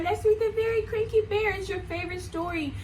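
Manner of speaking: excited. Real, not acted. Excited teacher announcing story.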